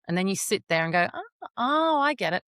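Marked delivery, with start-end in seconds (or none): 1.1-2.4 sudden realization. Retold or imitated.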